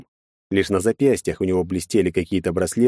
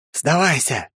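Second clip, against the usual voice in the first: booming electronically amplified shout; amplified command; 7 semitones higher, slower than usual. A narrator's reading. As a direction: boom it through a loudspeaker. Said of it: "Голос Энни был усилен электроникой и потому гремел".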